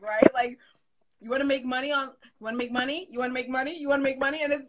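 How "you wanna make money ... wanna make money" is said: pushy beginner pitch. Retold or imitated. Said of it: "that's what they all sound like".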